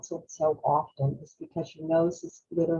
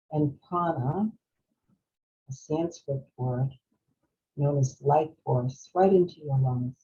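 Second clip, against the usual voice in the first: calm, spacious phrasing, slowing toward the end; guided meditation. Real, not acted. Leads breathing meditation.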